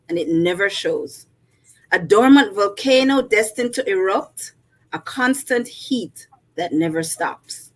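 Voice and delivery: measured poetry reading voice; poem reading. Acted. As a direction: read it like a poem recital. Reads her poem aloud.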